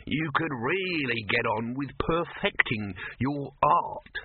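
slow, prying coax; a wheedling, insinuating pitch; persuasive wheedle. Acted. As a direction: lever him with flattery. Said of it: "his voice a crowbar inserted in the cracks".

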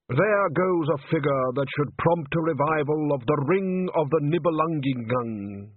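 slow, nostalgic old man, voiced lightly; wistful old conductor. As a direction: sigh over the good old days. Undershaft reminiscing.

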